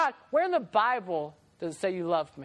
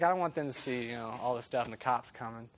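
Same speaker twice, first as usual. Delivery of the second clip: much softer, low hushed plea; whispered; 11 semitones lower, 7 dB quieter than usual. Retold or imitated. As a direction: whisper so mom won't hear. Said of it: "He whispered to my ear".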